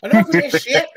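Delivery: high, loud southern redneck scolding; southern redneck accent. Retold or imitated. Pregnant redneck wife ordering drunk men into the car, southern accent scolding. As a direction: chew them out in a thick southern redneck accent. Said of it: "real southern redneck accent".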